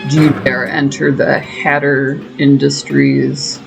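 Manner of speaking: slow, deep, booming menace; vast deep cosmic voice. Pretend. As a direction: boom like an ancient cosmic being. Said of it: "it's hard to make Alice in Wonderland intimidating".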